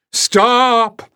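high, loud, piercing no; furious cry. A narrator's reading. The piper crying out against Jasmine, high furious shout. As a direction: shriek it out in outrage.

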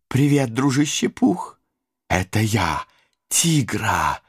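high, bouncy cartoon tiger; excited Tigger voice. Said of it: "Восторженным голоском прокричала Сабрина". (восторженный голосок Тигры)

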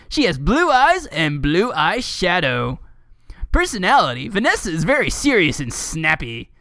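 lilting read-aloud voice; mock-dramatic article reading. Reading a fan wiki to a co-host, lightly mock-dramatic.

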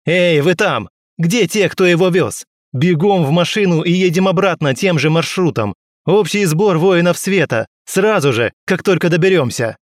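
loud, high commanding shout; shouted orders. A narrator's reading. Captain shouts orders to the drivers, loud and urgent. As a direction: bark orders across the yard. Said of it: "заорал я".

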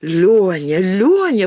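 drawn-out call, lifting on the repeat; joyful calling. A narrator's reading. Alina joins in greeting Lyonka, joyful calling. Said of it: "подхватила Алина".

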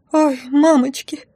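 high, slow frightened squeal. Acted. Frightened blonde squeals before fleeing the shop, mock panic. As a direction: wail it in panic. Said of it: "снова взвизгнула блондинка".

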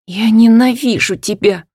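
loud bitter shout on "ненавижу"; hateful. Acted. Hanna telling her father she hates him, loud. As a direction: spit out "ненавижу" with hate. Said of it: "выдохнула я".

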